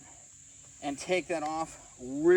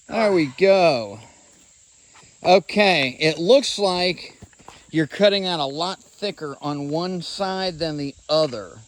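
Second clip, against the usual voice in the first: shouting over table saw; 7 dB louder than usual. Real, not acted. Talking over running saw noise.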